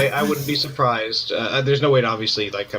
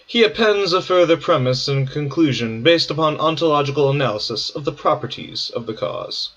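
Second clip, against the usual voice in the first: measured, formal reading voice; announcer voice. Shown as a demonstration. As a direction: read it like a radio announcer. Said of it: "I'll do it in an announcer voice".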